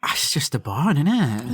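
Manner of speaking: unvoiced whisper; whispered echo. Real, not acted. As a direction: breathe it back in a whisper. Echoing in a whisper.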